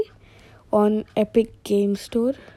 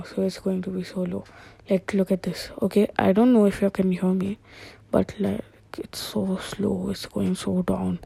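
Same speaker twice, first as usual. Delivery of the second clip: low, slow voice demo; 2 semitones lower, 6 dB quieter than usual. Shown as a demonstration. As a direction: drop the voice down low and slow for the pitch app. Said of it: "if I am talking like this right now".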